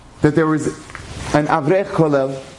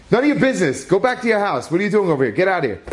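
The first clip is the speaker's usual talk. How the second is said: gruff brush-off; 6 semitones higher, faster than usual. Retold or imitated. Worker telling neighbor to leave.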